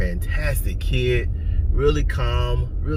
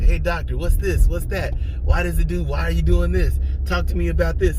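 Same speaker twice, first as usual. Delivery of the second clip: higher, rapid-fire questions to the doctor; keyed-up new father grilling the doctor; eager questioning; 6 semitones higher than usual. Retold or imitated. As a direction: play the anxious dad pestering the doctor. Retells pestering the delivery doctor.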